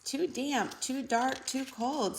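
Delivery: small squeaky mouse; high little mouse voice, lightly. Acted. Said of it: "Mouse squeaks".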